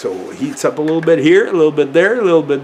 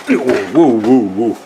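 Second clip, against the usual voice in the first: excited woo; 3 semitones lower than usual. Real, not acted. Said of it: "can you tell I'm getting excited here".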